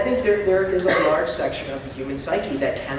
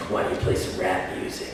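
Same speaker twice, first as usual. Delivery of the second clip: defiant whisper; 11 semitones lower, 6 dB quieter than usual. Retold or imitated. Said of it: "we'll just go".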